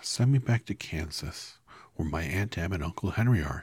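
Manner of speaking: Dorothy earnestly begging the wizard to send her home; earnest plea. Acted. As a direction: plead to go home. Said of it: "she answered earnestly".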